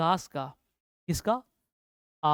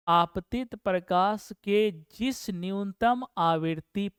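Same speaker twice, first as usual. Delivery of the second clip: slow definition; slower than usual. Shown as a demonstration. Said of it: "देखिए कैसे बनाते हैं".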